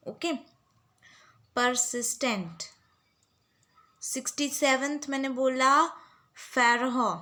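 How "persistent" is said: each syllable stretched very slowly; dictation pronunciation. Shown as a demonstration. Teacher dictating a word slowly to students. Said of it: "I'm repeating all these words".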